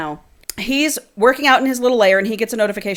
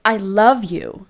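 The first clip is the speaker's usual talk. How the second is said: reading a romance novel aloud, a bit softer; dramatic book reading; 4 dB quieter than usual. Acted. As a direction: read the scene like an audiobook.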